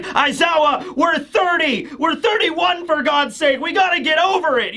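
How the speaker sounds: high-pitched exasperated protest; exasperated outburst. Retold or imitated. Friend telling Aizawa to get over it, exasperated. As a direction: whine it out, fed up with dwelling on it. Retold argument, acting Present Mike.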